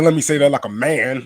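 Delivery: imitating a boss recovering from a voice crack; imitating Doug Franz. Host quoting his old boss, mock-manly emphasis. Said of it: "Let me put some bass in my voice".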